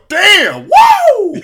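loud, high whooping cheer; hammed-up high yelling woo; excited whoop. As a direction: whoop it out like a thrilled fan. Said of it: "you can just hear him go".

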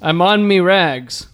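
broad put-on Aussie-Irish accent; mock drunk Irish-Australian accent. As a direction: announce it like an Irishwoman imitating Crocodile Dundee. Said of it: "in a booming voice and accent".

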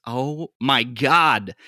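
very slow weary groan of a greeting; a weary dwarf greeting a faded star; exasperated disbelief. Acted. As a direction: sag into it with your face in your hand. Dwarf face in hand, exasperated.

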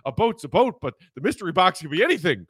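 a hint of a Peter Griffin voice; lightly voiced cartoon dad, raising at the end. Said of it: "like Peter Griffin".

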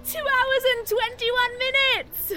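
high tearful joy; overjoyed sobbing laugh; ecstatic, laughing and crying. Acted. Finishing the marathon.

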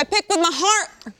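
laughing. Real, not acted. Laughing confession.

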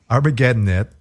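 saying it through a laugh; trying not to laugh. Real, not acted. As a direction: hold back laughter on the title. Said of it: "can't even say that without laughing".

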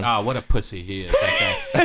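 sudden shout of scorn; angry outburst. Real, not acted. Co-host yells his contempt for Donald Trump, real angry shout. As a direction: blast him, full contempt.

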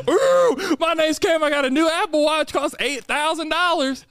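high, mocking impression of a show-off. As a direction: ham up a bragging rich guy. Mocking Cam's voice.

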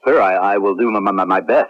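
repeating the first sounds with an anxious stutter; nervous stammer. Acted. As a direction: stutter out the promise, unsure of yourself. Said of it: "Why are you stammering?".

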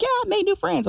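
high, airy tipsy voice; mock drunk friend. Drunk friend at the bar, high mock tipsy voice.

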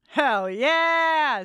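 loud, high whoop of delight; excited cheer. Real, not acted. Cheering the nominee.

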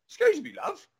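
high-pitched, friendly call for attention; cheery and positive. Retold or imitated. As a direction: chirp it politely, imitating your upbeat self. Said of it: "'cause I'm quite happy and quite positive".

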